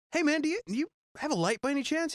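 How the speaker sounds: casual nervous ask. Retold or imitated. Asks a musician for a light.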